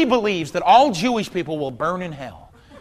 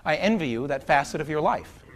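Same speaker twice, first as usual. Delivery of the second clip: sincere; 4 semitones lower, 6 dB quieter than usual. Real, not acted. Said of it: "let me say something in all sincerity".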